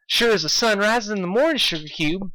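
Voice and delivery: high, proud southern pony; proud Applejack; beaming with pride. Acted. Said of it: "beamed Applejack with pride".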